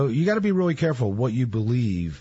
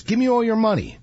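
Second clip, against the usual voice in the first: a mock robber's demand pitched high; 8 semitones higher than usual. Masked robber demanding money at gunpoint, mock threatening. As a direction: growl it out like a mugger with a gun. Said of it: "The masked man says".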